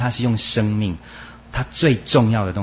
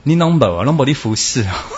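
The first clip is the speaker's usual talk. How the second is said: teasing with a laugh; 4 dB louder than usual. Real, not acted. Teasing the congregation.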